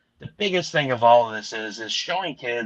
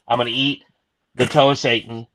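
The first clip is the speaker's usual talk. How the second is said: louder, punching "toe of Satan"; emphatic promise; 5 dB louder than usual. Real, not acted. To backers, pledging the stunt at five grand, loud and emphatic. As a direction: sell the dare, hitting "toe" hard. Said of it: "Now I'm putting it out there at five grand".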